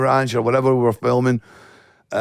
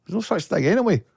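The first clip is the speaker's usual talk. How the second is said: scoffing; 6 semitones higher than usual. Retold or imitated. Mocking posh Glasgow request.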